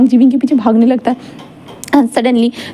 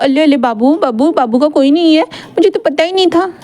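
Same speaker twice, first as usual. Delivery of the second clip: Wing mocking Wang Ji with cooing baby talk; 3 semitones higher than usual. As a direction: coo at him like a baby to tease him. Wing teases sulking Wang Ji.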